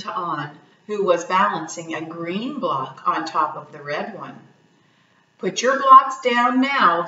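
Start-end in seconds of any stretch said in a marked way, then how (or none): 5.4-7.1 firm call. Acted. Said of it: "grandfather insists dinner".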